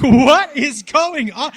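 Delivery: slow, drawn-out disbelief; baffled slow thought. Retold or imitated. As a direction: stretch every word in confusion. His own baffled inner thought.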